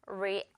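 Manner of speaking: Reality with a strong, stretched "al"; stress on middle syllable. Shown as a demonstration. Teacher reviewing the last word, Reality stressed on "al". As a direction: lean into the long middle of Reality. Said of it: "이렇게 가운데 부분 강세".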